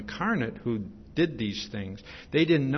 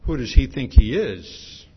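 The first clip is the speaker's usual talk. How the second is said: louder, indignant mock outrage; indignant crowd; 10 dB louder than usual. Preacher voices grumbling Jews scoffing at Jesus, loud. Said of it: "And they're saying".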